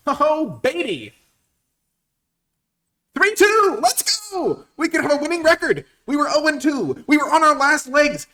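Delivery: high, loud victory rant; ecstatic shouting. Real, not acted. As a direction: gloat at the top of your lungs. Celebrating a win streak.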